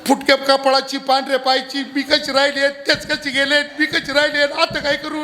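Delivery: a hammed-up wail that rises in pitch across the lines; keen like a village widow, half in jest; widow's mock keening. Wife lamenting over her husband, with hammed-up keening. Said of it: "बायको जो तू विचारूच नका".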